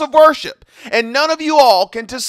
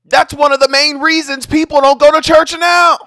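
heated rant; 3 semitones higher than usual. Real, not acted. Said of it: "I just lose it".

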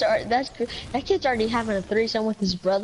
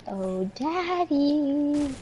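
long, stretched, higher mock cry; imitated scream without the volume; 5 semitones higher, much slower than usual. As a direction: draw it out in a hammed-up wail. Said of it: "Jake screams".

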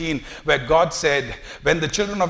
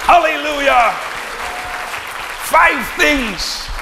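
very high loud hallelujah; ecstatic shout; 10 semitones higher, 5 dB louder, slower than usual. Real, not acted. Preacher rejoicing before the congregation, a very high loud shout. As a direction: let it burst out in praise.

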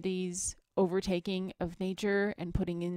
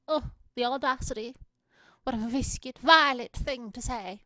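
loud, high theatrical indignation; hammed-up affront, pitched up and punched; mock outrage; 4 semitones higher, 6 dB louder than usual. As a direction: play scandalized, booming out "Violet". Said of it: "Why did I say it like that?".

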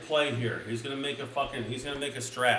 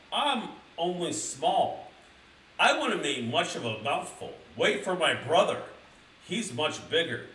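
little goat voice; 4 semitones higher than usual. Acted. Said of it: "said the little Billy Goat Gruff".

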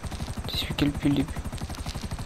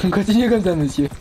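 louder, higher mock congratulation; loud mock praise; 5 semitones higher, 6 dB louder than usual. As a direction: repeat it like a loud announcer. Mock repeat of game message.

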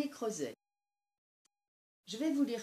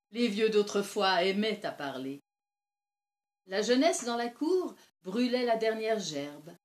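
lightly acted old woman, animated by festive memories; old villager reminiscing; 10 dB louder than usual. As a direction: relive the harvest feast, swelling on the highlights. Old Lise recalls harvest feast. (vieille conteuse qui s'anime, légèrement jouée)

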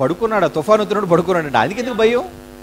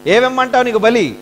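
mock begging; 6 semitones higher than usual. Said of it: "అమాయకులు కదండి".

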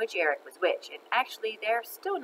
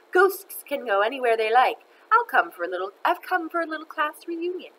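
raised, theatrical villain voice; taunting ghost teacher; 6 semitones higher, 4 dB louder than usual. Acted. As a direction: gloat as the returning ghost.

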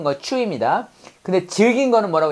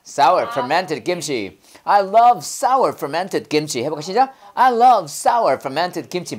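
very slow, each word drawn out; over-articulate sour fermented 김치 slowly; slow drill; 2 semitones lower, much slower than usual. Shown as a demonstration. Teacher drilling students slowly on the phrase. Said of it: "입에다 두 개 넣고 시작".

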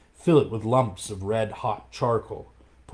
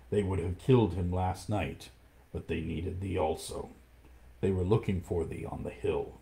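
lightly lowered, hushed big cat; low panther voice; 3 semitones lower, 4 dB quieter than usual. Acted. Panther warns Mowgli of the pack's plot, hushed and low. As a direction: speak it like a watchful panther.

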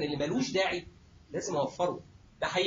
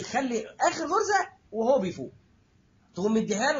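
knowing anesthetist advice; 3 semitones higher, 4 dB louder than usual. Retold or imitated. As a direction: drag it out with a knowing wink. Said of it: "يقول لك ايه".

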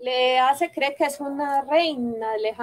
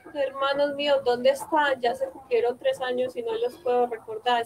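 sad. Acted. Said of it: "Y ella triste le dice".

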